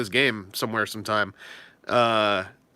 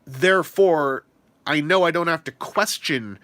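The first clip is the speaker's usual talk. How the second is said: calm self-reassurance; 3 semitones higher, slower than usual. Retold or imitated. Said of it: "when you're like".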